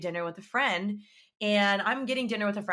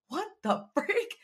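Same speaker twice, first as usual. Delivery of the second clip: laughing disbelief; 10 semitones higher, slower than usual. Retold or imitated. Learning he dated another girl.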